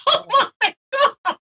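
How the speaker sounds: high, laughing oh my God; amused disbelief at the answer. Retold or imitated. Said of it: "I'm like".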